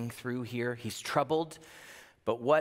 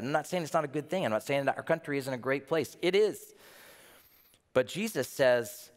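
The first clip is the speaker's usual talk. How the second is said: normal talking voice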